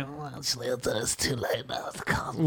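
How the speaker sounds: soft, slow, trailing into a whisper; hushed pretend apology, dying away; feeble mock refusal. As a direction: back out meekly, fading to nothing. Acting a feeble refusal to celebrities.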